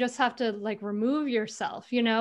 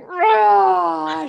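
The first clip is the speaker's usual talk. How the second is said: a big mock roar, much higher and louder; retold roar; 8 semitones higher, 13 dB louder than usual. Mom roaring at her laughing daughter, hammed-up. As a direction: roar like a volcano erupting. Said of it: "when I was really mad".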